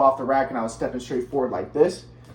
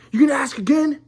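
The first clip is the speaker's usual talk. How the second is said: higher and louder mock challenge; menacing dad; 9 semitones higher, 5 dB louder than usual. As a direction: imitate a father daring his son. Retold dad's threat during headlock.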